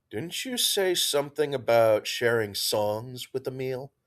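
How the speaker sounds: dry, even statement; matter-of-fact. Acted. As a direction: state it plainly, no fuss. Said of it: "Fluffy stated matter-of-factly".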